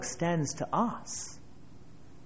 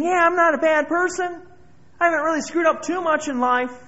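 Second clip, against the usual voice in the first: higher, self-satisfied mock voice of a complacent sinner; smug churchgoer; 11 semitones higher, 6 dB louder than usual. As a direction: mimic a smug churchgoer, pitched high. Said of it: "we came here tonight thinking".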